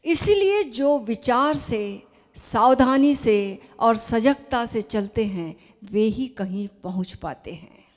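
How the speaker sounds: measured, emphatic reading aloud; formal letter reading. Acted. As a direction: read it out deliberately, pausing between phrases. (पत्र का ज़ोरदार, सधा हुआ पाठ)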